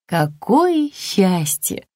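slow, understated joy; glad relief. A narrator's reading. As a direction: breathe out slow, mild relief. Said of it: "обрадовалась она".

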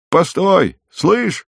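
high-pitched call, no real shout in volume. A narrator's reading. Peasant woman stopping the guest as he leaves, calling out. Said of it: "крикнула она".

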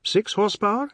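high, incredulous mocking question; scoffing disbelief; hooting derision. A narrator's reading. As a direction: hoot it, pitched right up. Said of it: "he hooted".

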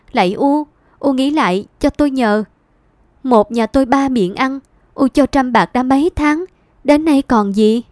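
begging son. Acted. Son begging his mother to reconsider, pleading. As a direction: implore her while backing away.

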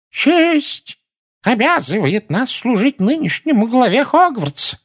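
very high, loud frail exclamation; old wizard exclaiming. A narrator's reading. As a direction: cry out like an ancient wizard. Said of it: "воскликнул дряхлый волшебник". (восклицание дряхлого старика)

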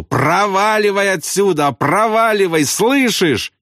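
high, frantic repeated order; desperate angry cry. A narrator's reading. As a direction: drive him off, at wits' end. Acted desperate outburst while beating him.

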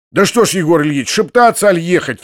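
irritated outcry; impatient cry. Acted. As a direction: snaps at them to get going. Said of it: "вскричал в другой раз".

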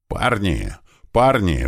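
mild acted shout; Слива calling out. Слива suddenly calling to the bandits, restrained shout. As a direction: hail the men, pushing harder the second time. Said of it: "внезапно закричал Слива бандитам".

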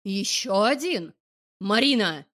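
put-on loud, slow drunken bark; town drunk bark. A narrator's reading. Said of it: "рявкает он".

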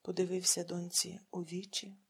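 plain reading voice

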